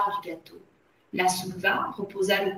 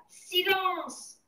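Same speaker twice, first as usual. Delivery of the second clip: high, drawn-out cry; bawled command; 9 semitones higher, 4 dB quieter than usual. A narrator's reading. Le Gourdin to the cheering assistance, bawled command. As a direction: bawl for quiet without full volume.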